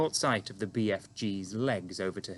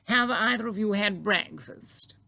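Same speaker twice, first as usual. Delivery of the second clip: Queen greeting the giant calmly; composed Queen; 12 semitones higher, 3 dB louder than usual. A narrator's reading. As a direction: stay perfectly poised, royal. Queen voiced in story.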